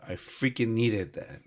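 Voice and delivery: excited thanks. Retold or imitated. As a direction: let it burst out, glad and loud. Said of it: "I was like".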